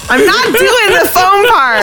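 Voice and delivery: high nasal-free Pee-wee squeak; high playful Pee-wee voice; Pee-wee Herman voice. Acted. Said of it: "your Pee Wee Herman impression".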